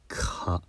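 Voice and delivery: か as a soft, voiceless K then a; K glided into a to make か; demo syllable ka. Shown as a demonstration. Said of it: "くって発音した後に、あといえば".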